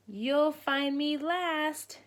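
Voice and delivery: a lightly voiced duckling boasting; duckling's cry. Duckling boasting to Mama, lightly voiced. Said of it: "cried Puddle".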